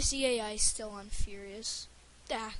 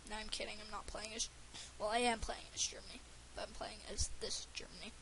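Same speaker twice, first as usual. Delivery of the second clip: whispering; 7 dB quieter, faster than usual. Acted. Secret aside about which Germany.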